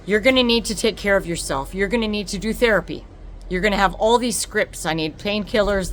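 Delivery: a loud, insistent doctor; mock doctor laying down the rules; doctor's orders. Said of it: "And they said".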